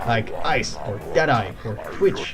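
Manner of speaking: lightly voiced pushy fight promoter; a hint of a slick promoter; pushy organizer voice. Voicing the duel organizer NPC.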